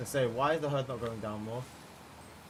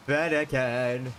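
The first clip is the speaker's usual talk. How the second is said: calling out; 4 dB louder, slower than usual. Real, not acted. Calling out for Fennekin.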